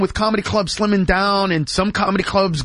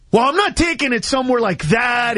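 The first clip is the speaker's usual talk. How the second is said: indignant shout; 4 semitones higher than usual. Retold or imitated. Friend's excuse in a retold call.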